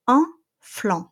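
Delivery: flan ending in the open nasal an, no N; French nasal. Shown as a demonstration. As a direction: drop jaw for flan. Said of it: "nasal sound en".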